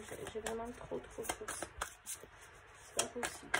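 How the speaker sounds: speaking beside a running fan. Real, not acted. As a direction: voice blown about by a fan. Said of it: "si vous entendez le ventilateur".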